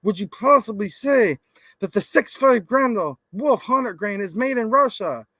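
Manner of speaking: mock outraged yelling. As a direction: mimic an all-caps demand, punching words. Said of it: "You're yelling".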